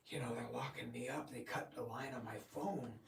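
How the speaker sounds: soft secret whisper. Retold or imitated. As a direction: breathe it as a secret. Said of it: "she whispers to me".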